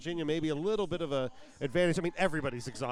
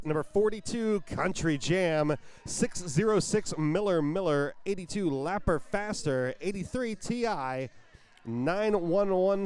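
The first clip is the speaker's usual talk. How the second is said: roster call. Acted. Announcing the Virginia roster to the crowd, arena announcer. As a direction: stretch each skater's name out for the crowd.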